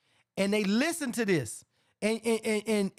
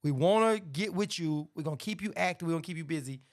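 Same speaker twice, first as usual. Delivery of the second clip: mock smooth promise; 4 semitones lower than usual.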